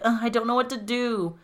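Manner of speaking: mildly whiny imitation of crying; mock crying. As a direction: play at being tearful, pitched a little up. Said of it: "crying about the plight".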